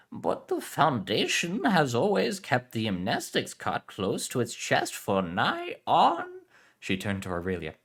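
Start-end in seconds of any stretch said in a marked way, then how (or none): 0.1-6.4 put-on Spanish accent. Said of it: "Spanish heritage".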